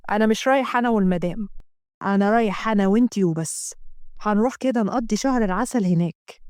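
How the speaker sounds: lightly voiced reassuring man; a hint of a romantic male lead; teasing male lover.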